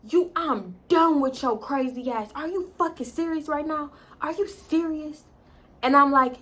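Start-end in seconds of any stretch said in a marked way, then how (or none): 0.1-5.2 exasperated disbelief. Retold or imitated. Boyfriend replying to her accusation, exasperated. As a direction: imitate a fed-up boyfriend.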